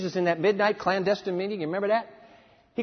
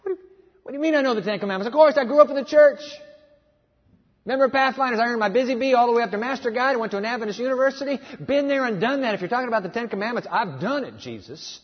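indignant retort; 3 semitones higher, faster than usual. Retold or imitated. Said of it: "young man's indignant retort".

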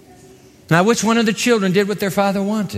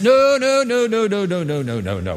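fading refusal. Acted. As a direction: let the noes sink away.

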